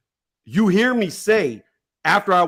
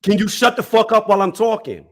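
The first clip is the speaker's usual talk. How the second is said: real anger, cutting him off; fed-up demand for silence in a heated debate; angry snap; 4 semitones higher than usual. Real, not acted. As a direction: tell him to shut up, heated. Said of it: "Don't talk like that".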